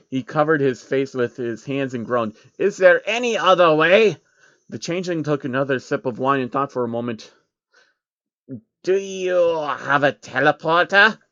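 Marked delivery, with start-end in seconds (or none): 2.6-4.2 a little higher, hopeful plea; hope against hope; pleading Baron. A narrator's reading. Jacob asks the changeling for another way, lightly voiced. 8.8-11.2 a touch higher, slower creature voice; changeling voice. A narrator's reading. The changeling asks Jacob about a teleporter, lightly voiced.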